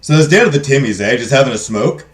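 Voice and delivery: hammed-up Canadian regular at the coffee shop; Canadian accent. Chatting about Timmies and a smoke, Canadian accent. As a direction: lean hard into a casual Canadian accent. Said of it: "Can we get a Canadian accent?".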